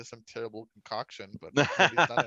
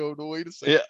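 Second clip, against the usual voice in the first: louder sudden oh no, wait; mock alarmed realization; 8 dB louder than usual. Retelling realizing a TV scene, mock alarmed and loud. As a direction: act out a dawning panic, loud. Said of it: "and I was like".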